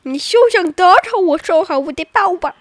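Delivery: high, loud theatrical declaration; hammed-up triumphant challenge; mock defiance. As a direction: declaim it like a cartoon hero. Child repeats theatrical defiance louder.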